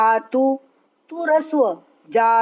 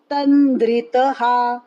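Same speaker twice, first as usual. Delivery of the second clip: तन्द्रितः with the first syllable तन् stressed. Shown as a demonstration. Teacher drilling students on the stress in तन्द्रितः. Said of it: "त पर आघात".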